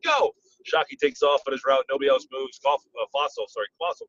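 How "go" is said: high-pitched quarterback's snap command; mimicked high cadence call; Kerry Collins. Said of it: "Kerry Collins, you know".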